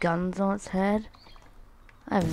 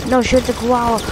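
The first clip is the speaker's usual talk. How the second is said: "No shoot the koala" read higher and louder; loud mock sign reading; 5 semitones higher, 7 dB louder than usual. Shown as a demonstration. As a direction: call the sign out like a warning. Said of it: "Wait, it says".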